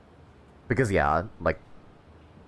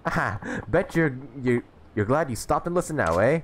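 put-on English old man voice; 5 semitones higher than usual. Streamer voicing game characters.

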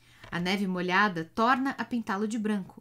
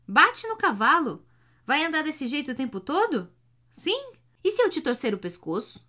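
threatening shout; 6 semitones higher, 5 dB louder than usual. A narrator's reading. Hunchback threatening the driver.

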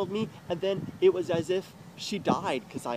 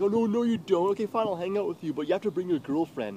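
quick, higher mock objection; retold jealous protest; 5 semitones higher than usual. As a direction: imitate her hurried protest.

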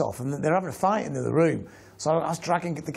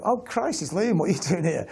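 retold surprise; 2 semitones higher than usual. Retold surprise at meeting Liam.

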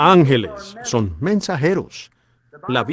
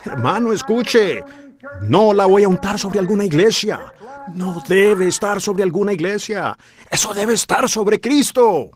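high, emphatic sermon climax; driving the point to Christ; preaching at full force; 6 semitones higher than usual. Acted. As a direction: press each claim home to the crowd.

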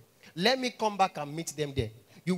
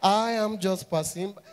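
mock farewell; 3 semitones higher, 4 dB louder, slower than usual. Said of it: "I said".

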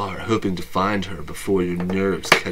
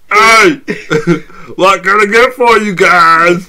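chirpy, louder waitress; perky server greeting; 12 semitones higher, 13 dB louder, slower than usual. Acted. S0 voices ghost waitress.

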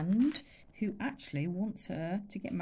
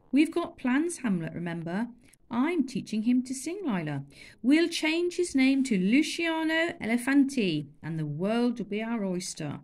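higher, louder dreamy plans; excited boy; 4 semitones higher, 5 dB louder than usual. Acted. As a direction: dream big. Chulak boasting plans.

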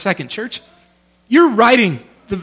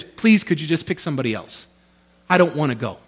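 soft pleading; 6 semitones lower, 7 dB quieter than usual. Retold or imitated. Moses begging God to pick another.

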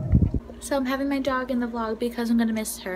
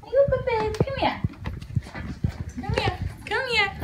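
talking to a dog; 7 semitones higher than usual. Real, not acted. Baby talk to puppy.

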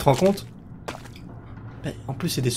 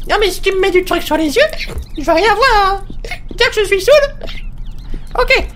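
very high put-on voice; voiced character. Player voicing a game character protesting, very high.

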